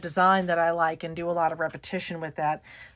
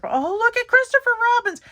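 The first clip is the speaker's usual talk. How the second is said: much higher and louder, quick and thrilled; delighted exclaim; 8 dB louder, faster than usual. Real, not acted. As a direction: squeal over a cute find. Delighted at spotting a sticker.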